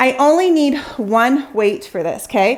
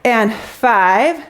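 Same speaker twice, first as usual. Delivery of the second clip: out of breath. Real, not acted. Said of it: "I'm already out of breath".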